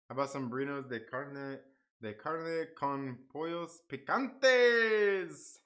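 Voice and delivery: attempted Spanish accent, last word drawn out. Shown as a demonstration. Streamer trying a Spanish dish name, in a Spanish accent. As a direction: try a slow-ending Spanish accent. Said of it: "say all that in a Spanish accent".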